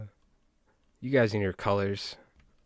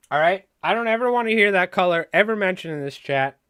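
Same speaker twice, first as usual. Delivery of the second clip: loud, higher mock-angry shopkeeper tirade; ranting fly shop owner; 5 semitones higher, 6 dB louder than usual. Fly shop owner banning fancy colors, in hammed-up outrage. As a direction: build from irritated ranting to a yelled dismissal. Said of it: "That's what I would sound like".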